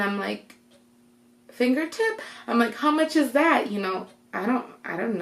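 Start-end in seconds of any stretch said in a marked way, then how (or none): 1.5-3.7 tag-free. Retold or imitated. Reenacts baffled reply to nurse.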